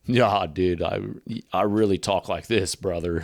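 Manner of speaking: lightly voiced surfer bro; surfer dude. Comic imitating real-life surfers for his co-host, surfer talk. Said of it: "I've heard surfer in real life where they're like".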